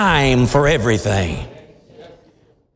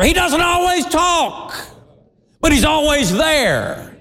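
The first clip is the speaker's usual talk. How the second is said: gentle answer, much higher; 10 semitones higher than usual. Acted. Pastor answers imagined listener.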